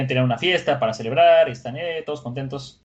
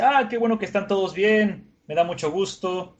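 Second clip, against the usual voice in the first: delighted greeting; 7 semitones higher than usual. Acted. Sanji arrives, greets friends happily.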